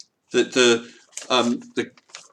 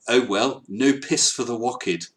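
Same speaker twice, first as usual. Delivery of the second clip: quoted in mangled French-policeman English; appalling accent. Acted. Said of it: "with the appalling a-, accent".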